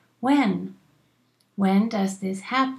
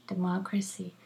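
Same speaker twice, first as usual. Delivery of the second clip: whisper; 7 dB quieter than usual. Shown as a demonstration. Teacher whispers the word for students to repeat. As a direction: whisper democracy, breathy and unvoiced. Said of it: "teacher whispering the word".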